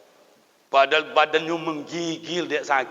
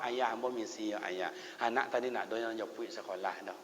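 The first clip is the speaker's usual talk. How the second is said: low, soft leave-taking; hushed excuse; 6 semitones lower, 12 dB quieter than usual. Acted. Eldest son leaving his sick father's bedside, hushed excuse. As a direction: murmur a polite excuse to slip away.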